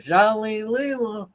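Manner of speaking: high, slow, drawn-out mimicry; Charlene Lima. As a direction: stretch the name out in a high mock voice. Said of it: "What would Charlene Lima have said".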